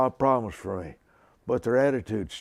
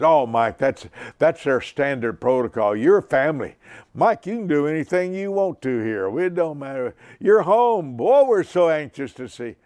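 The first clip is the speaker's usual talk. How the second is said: higher, eager voice of the phoning pastor; excited pastor; 5 semitones higher, 4 dB louder than usual. Retold or imitated. Pastor in Phoenix greeting Mike on the phone, higher and eager. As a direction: gush like a delighted host. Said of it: "And he just kept right on going".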